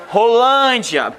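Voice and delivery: Rolândia drawn out slowly, weight on the syllable lân; slow Rolândia, leaning on lân to show the stressed syllable; stress shown. Shown as a demonstration. Teacher shows students the stressed syllable, slow and marked. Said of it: "como a penúltima é mais forte".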